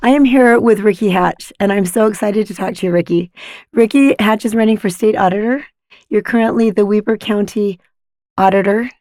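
hoarse from laryngitis; scratchy voice. Real, not acted. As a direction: talk through a sore throat. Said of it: "apologies in advance for my scratchy voice".

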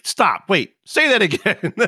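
retold incredulous interruption with a laugh in it; amused disbelief. Friend stops him over the word water, imitated in amused disbelief. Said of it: "and he's like".

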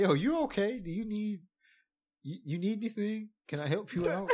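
high-pitched worried bystander act; mock concern.

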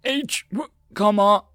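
very high, loud frantic shout; panicked yell. A narrator's reading. Gunner under attack calling command, panicked yell. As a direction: yell desperately into the radio. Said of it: "The gunner's panicked yells".

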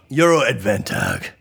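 "Adventag" ending in a hard g; missing-E pronunciation. Real, not acted. Host announcing his misspelt point title, deliberate mispronunciation. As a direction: say "Adventag" with -tag in place of -tage. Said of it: "I'm saying advantage like that".

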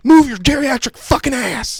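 high, loud, stammering mock rage; stammer, then explode at him slowly; shaking fury. TSA officer to old man, shaking with rage. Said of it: "He was shaking".

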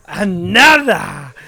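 drawn-out, projected call; playful holler. Pretend. Co-host keeps playing with volume, drawn-out holler. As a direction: stretch the word out loudly. Continues the loudness test.

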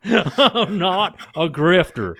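drawn-out Texan sales pitch; bad Texan accent. Doctor hawking her book to listeners, mock Texan. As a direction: plug it in a hammed-up Texan accent. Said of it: "That's my worst Texan accent I can do".

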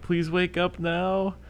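high, slow, pleading imitation of a sob; a retold tearful breakdown, high and drawn out; mock crying plea. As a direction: beg a dead friend to wake up. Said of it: "crying and yelling".

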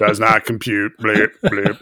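low robot voice with bleeps; malfunctioning robot. Retold or imitated. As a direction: intone it like a confused computer. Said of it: "Corby's like".

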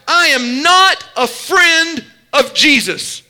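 slow, insistent, firmly stressed NOT; emphatic denial. Retold or imitated. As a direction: hammer out the denial. First take of the denial.

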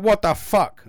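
loud alarmed yelp; startled shout. Retold or imitated. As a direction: shout it in shock. Startled parents in bed shouting.

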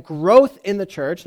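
growth said with clear weight; stress on growth. Shown as a demonstration. Preacher to congregation, emphasizing growth in the church. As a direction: lean hard on the word growth. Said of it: "now I emphasize the word growth".

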